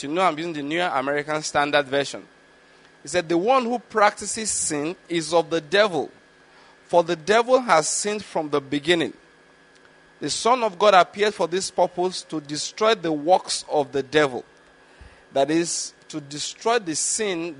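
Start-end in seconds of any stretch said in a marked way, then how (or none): 3.3-14.4 scripture reading. Acted. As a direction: read the Bible passage deliberately to the congregation. Preacher reads scripture aloud.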